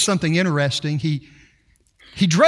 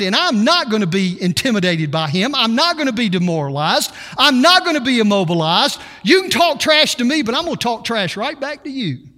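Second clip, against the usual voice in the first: firm repeated "not" defiance; defiant attitude; 2 semitones higher than usual. Retold or imitated. Preacher voicing believers' attitude toward giants, defiant. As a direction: refuse to be cowed. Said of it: "an attitude that says".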